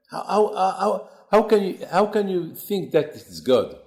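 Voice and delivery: indignant. Acted. Abraham scolds his father.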